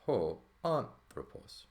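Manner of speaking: "ho anthropos" slow, "ho" run straight into "anthropos"; joined as one word. Shown as a demonstration. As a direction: glide "ho" into "anthropos" with no break. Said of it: "So it's gonna be".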